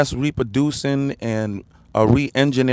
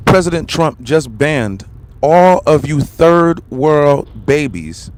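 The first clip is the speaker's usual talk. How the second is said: slow emphatic proclamation; 4 dB louder, slower than usual. Real, not acted. Ranting about the ban.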